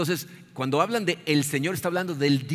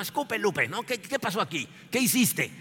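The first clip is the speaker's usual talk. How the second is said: interrogation; 5 semitones higher than usual. Acted. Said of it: "empieza el interrogatorio".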